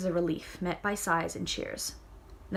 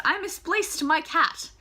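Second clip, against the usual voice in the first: higher, louder, slow mock line; mock quote; 8 semitones higher, 5 dB louder, slower than usual. Shown as a demonstration. Reader mocking the phrase, slow and high. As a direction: lean into the absurd phrase.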